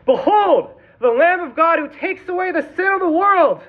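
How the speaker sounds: high, loud proclamation; shouting. Retold or imitated. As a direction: cry it out like a prophet. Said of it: "he shouted".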